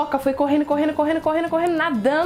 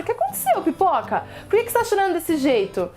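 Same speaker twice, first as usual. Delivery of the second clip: worried fish; 4 semitones higher than usual. Acted. Fish ask why he cries.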